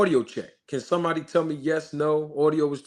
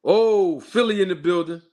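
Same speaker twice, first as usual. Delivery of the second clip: excited hometown shout-out; 3 semitones higher, 4 dB louder than usual. Real, not acted. Greets his home city viewers.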